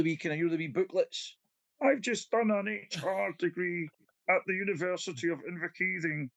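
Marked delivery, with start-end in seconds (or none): 1.8-6.3 smug HR graduate. Retold or imitated. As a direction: mimic a proud new HR grad. Mocking a fresh HR graduate.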